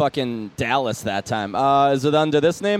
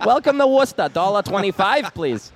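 Toll Booth Willie; 3 semitones higher than usual. Retold or imitated. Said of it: "You ever hear that A-, Adam Sandler skit?".

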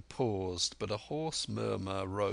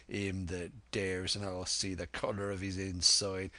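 Silver, challenging. Acted. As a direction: dare the crew to fight.

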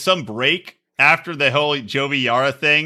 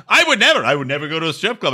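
mock defensive denial; faster than usual. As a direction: imitate a man protesting too quickly. Acted hasty denial by Brandon.

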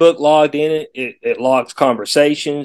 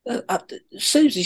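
sugary high customer service voice; sweet high voice; 10 semitones higher, 5 dB quieter than usual. Retold or imitated. Naming the sweet service rep.

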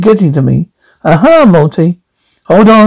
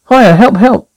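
raised urgent call for help; 4 semitones higher than usual. Acted. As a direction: shout it out to be heard. Calling out about a fire.

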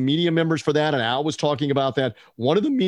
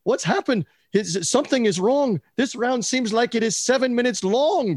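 put-on Northern Irish accent, pitched up; a Northern Irish reporter's voice, raised; 9 semitones higher than usual. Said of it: "I'll do the Northern Irish accent as best I can".

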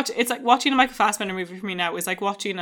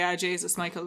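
put-on Irish accent; 2 semitones lower, 10 dB quieter than usual. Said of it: "I would as quickly say".

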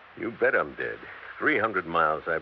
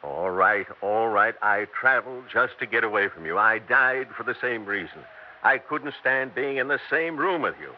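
louder, higher, fed-up confession; bitter, raised voice to his nagging wife; cruel outburst; 4 semitones higher, 4 dB louder than usual. Acted. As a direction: snap it all out at last, fast at first. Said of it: "Why must you be so cruel to me?".

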